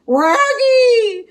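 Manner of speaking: Scooby shout. Acted. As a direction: yelp his buddy's name in panic. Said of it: "shouted Scooby".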